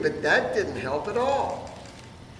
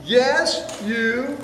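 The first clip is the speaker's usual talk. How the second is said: higher, loud insisting cry; cried out; 7 semitones higher, 3 dB louder, much slower than usual. Acted. Fluffy bear pressing smelly bear, higher loud cry. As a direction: cry it out at him. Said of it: "cried Big Fluffy Bear".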